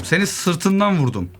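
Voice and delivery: slow, savoured taunt at the victim; drawn-out gloating. Real, not acted. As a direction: stretch the words out in triumph. Gloats over a back shot.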